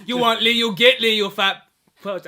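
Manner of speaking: loud, hammed-up Asian accent; caricatured Asian accent, pushed for laughs; mock Asian accent. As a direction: put on an exaggerated Asian accent, loudly. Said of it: "I talk in a super racist Asian accent".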